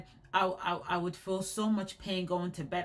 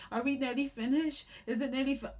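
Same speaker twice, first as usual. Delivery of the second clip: put-on higher, pleading child voice; whiny kid; 5 semitones higher, faster than usual. Teen in the salon chair, imitating a whiny child. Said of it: "I was like a kid on her chair".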